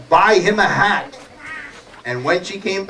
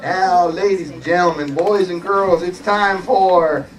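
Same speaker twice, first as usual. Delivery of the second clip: stretched-out showman's introduction; show announcer; slower than usual. Acted. Host presenting the next story to children, drawn-out announcer. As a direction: build up the title, dragging it out.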